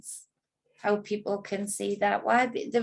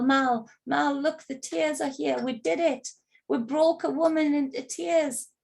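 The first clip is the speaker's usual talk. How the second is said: mock shout to pal; 5 semitones higher than usual. Woman mimicking the man calling his pal over, mock shout. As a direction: mimic his triumphant call, half-voiced. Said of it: "Even shouts over to his pal".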